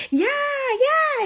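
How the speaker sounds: very high sneering mock taunt; mocking Kalani. Kalani brushing off Drake mid-fight, high mocking voice.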